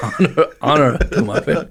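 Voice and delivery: put-on Japanese accent. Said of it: "a racist accent".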